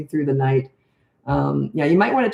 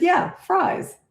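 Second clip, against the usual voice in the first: exasperated repeat; 11 semitones higher than usual. Retold or imitated. Repeating to confused cashier.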